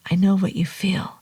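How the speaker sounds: gentle soft whisper. Acted. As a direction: say it softly, soothing. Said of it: "he said softly".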